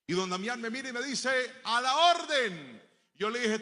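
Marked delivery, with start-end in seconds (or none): 1.6-2.8 slow, higher, louder shopkeeper voice; drawn-out at-your-service; shopkeeper's greeting. Retold or imitated. Don Damián greeting the boy in a full shop, slow and louder.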